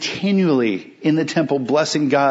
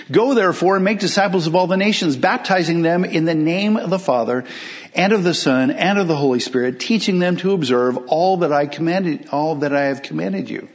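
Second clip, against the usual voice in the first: emphatic reread; 2 semitones higher than usual. Shown as a demonstration. Pastor rereads the commission to his church as a rousing, emphatic proclamation. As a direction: hammer the verse home as the battle plan.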